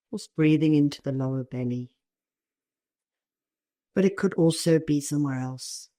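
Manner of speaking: calm meditation guiding with long pauses; spacious, unhurried instructions, phrase by phrase; guided meditation. Real, not acted. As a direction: guide them gently into the body.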